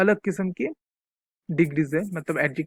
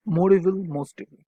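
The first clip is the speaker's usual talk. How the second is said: slow dictation; much slower than usual. Shown as a demonstration. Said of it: "teacher dictates word forms".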